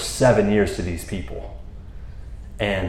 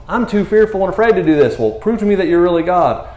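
mock fearful Gideon; 8 semitones higher than usual. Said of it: "he goes from".

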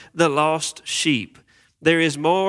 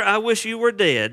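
shocking demand; 7 semitones higher than usual. Retold or imitated. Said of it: "He says to his father".

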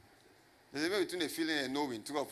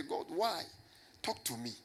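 calm quiet prayer; 5 dB quieter than usual. Shown as a demonstration. Pastor showing the right way to ask God, softly.

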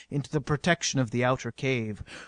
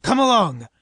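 loud, higher urging call; brisk command; 5 semitones higher, 8 dB louder than usual. A narrator's reading. Stanley urges the others to the hose, commanding. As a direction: call them to follow at once.

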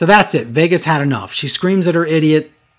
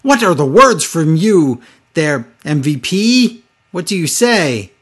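cartoonish interviewer; 3 dB louder, slower than usual. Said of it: "she's a cartoon character".

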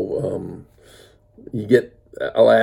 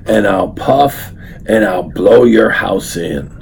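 slow, louder wolf threat; wolf threatening the pig, slow and louder; 5 dB louder, slower than usual. Acted. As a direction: lean on it like a bully wolf. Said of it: "So the wolf said".

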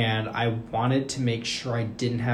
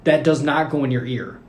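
exasperated retold plea; 4 semitones higher, 8 dB louder than usual. Exasperated warning to roommate, retold.

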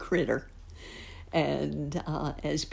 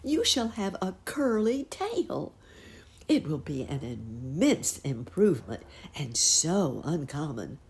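tiny tinkling fairy voice. Acted. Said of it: "she said".

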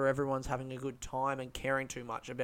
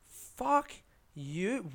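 sudden high yelped curse; angry retort; 6 semitones higher than usual. Retold or imitated. Comic retelling his snap at a doubting punter, high angry curse. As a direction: spit it back at him, stung. Retorts to guy who disbelieves him.

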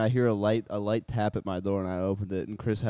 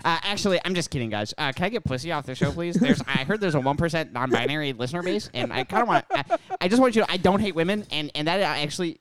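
high, whiny mock apology; mocking his own voice; 3 semitones higher than usual. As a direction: grovel in a silly high voice. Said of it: "'cause I'm him".

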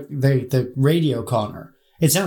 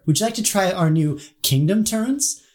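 higher, chirpy fast-food drive-thru worker; drive-thru headset voice; 5 semitones higher than usual. Acted. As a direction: do the McDonald's headset greeting. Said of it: "the headset voice at McDonald's".

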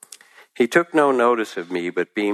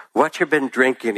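eager interest; 6 semitones higher than usual. Acted. Old man asking the drunk, high and eager. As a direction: ask like it truly fascinates you. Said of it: "his eyes sparkling with interest".

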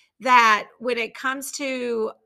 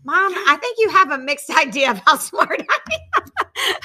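laughing daughter; 5 semitones higher, 6 dB louder than usual. Retold or imitated. Daughter teasing mom, laughing.

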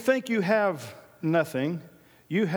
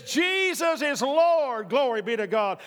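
confident declaration; 4 semitones higher, slower than usual. Retold or imitated. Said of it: "The righteousness which is of faith says".

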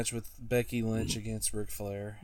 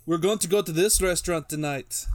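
a bad, hammed-up Irish accent; horrible Irish accent; 6 semitones higher, 3 dB louder than usual. Irish accent joking to the podcast crew about dinner. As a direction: put on a terrible Irish lilt. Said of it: "My horrible Irish accent".

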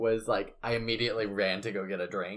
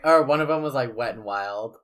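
amused; 3 semitones higher, 13 dB louder than usual. Real, not acted. Laughing retelling dirty slogans.

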